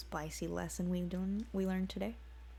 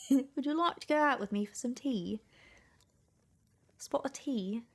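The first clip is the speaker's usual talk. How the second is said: higher quasi-British invitation; British accent; 6 semitones higher than usual. Acted. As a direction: invite her in a mock British voice. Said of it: "quasi-British accent".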